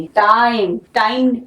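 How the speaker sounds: टाइम said twice with a long ai vowel; teacher stresses the stretched vowel in टाइम; long vowel time. Shown as a demonstration. Teacher contrasts Tim with time for students. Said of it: "टाइम long हुआ".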